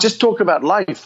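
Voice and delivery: put-on high Scots accent; Billy Connolly. Star comic advising his opening act, in a Scots accent. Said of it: "said to me in his best Scots accent".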